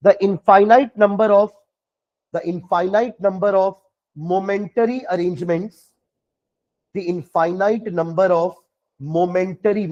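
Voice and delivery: very slow, measured dictation; word by word, pausing for writers; dictating. Real, not acted. Teacher dictates a definition for students to write, slowly and deliberately. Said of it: "चलो definition लिखना".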